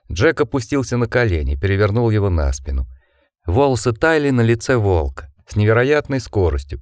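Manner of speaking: usual speaking voice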